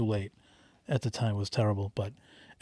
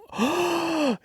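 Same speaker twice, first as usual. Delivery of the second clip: high-pitched mock gasp; one long, high gasp in imitation; imitated gasp; 3 dB quieter than usual. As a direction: imitate a shocked audience member gasping. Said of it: "you didn't hear someone go".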